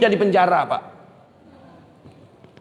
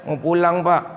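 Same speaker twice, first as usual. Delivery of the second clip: low, timid schoolchild's answer; lowered, respectful little reply; meek pupil; 4 semitones lower than usual. Retold or imitated. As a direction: answer the teacher with head bowed. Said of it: "kita pulang sekolah nunduk aja".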